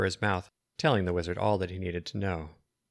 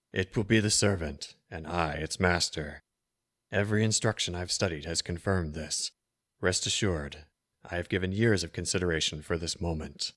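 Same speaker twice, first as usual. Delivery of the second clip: sinister wizard; 2 semitones lower than usual. Acted. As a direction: speak like a cold dark wizard.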